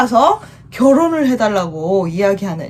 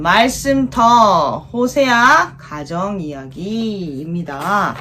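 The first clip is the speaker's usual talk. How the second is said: put-on reading to a toddler; 2 semitones lower, much slower than usual. Slow title reading.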